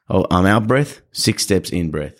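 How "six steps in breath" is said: slow breathing cue. Shown as a demonstration. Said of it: "When I'm walking six, six steps out".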